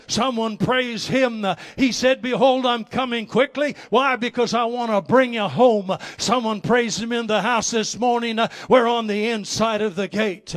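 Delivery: loud, rousing preacher's cry; preaching at full force. Acted. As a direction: preach it out to the congregation, building fire. Preaching the sermon's climax.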